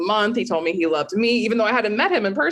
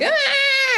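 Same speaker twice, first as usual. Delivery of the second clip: mock panicked scream. Terrified of a mouse at three am, shrieking. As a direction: squeal it out like you just saw a mouse.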